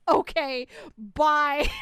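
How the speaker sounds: loud curt brush-off; dismissive. Retold or imitated. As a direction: dismiss them loudly and leave. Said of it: "And I'm like".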